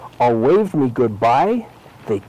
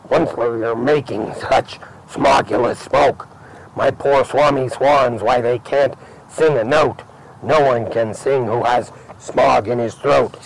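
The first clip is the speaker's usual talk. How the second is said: light croaky cry. Acted. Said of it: "he cried, with a crofulous croak".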